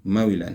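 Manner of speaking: مولا with a brief i on the w; light kasra on waw. Shown as a demonstration. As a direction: say مولا as ma-wi-lan, the w single and light. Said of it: "بكسر الواو تكرة خفيفة". (مولا waawii kasraa salphaadhaan dubbisuu)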